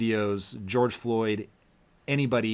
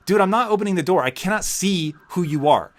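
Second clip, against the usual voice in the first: higher and louder, retold yell through the door; 7 semitones higher, 4 dB louder than usual. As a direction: shout back at the cops you can't see. Yelling back through the door.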